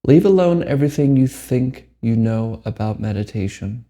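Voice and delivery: measured meditation guide with long pauses; unhurried phrases, each left to settle; guided meditation. Acted. Meditation teacher guides listeners to let go, guided meditation.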